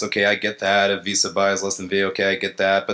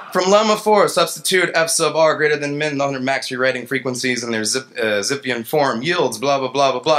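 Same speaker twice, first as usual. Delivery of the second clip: mock academic reading; 2 semitones higher than usual. Engineer mocking paper's lemma, pompous read. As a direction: rattle off the jargon mockingly.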